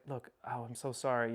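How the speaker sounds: soft, low sympathetic apology; kind, quiet retold reassurance; comforting. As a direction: console gently, well below full voice. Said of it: "she comforts him ... real nice about it".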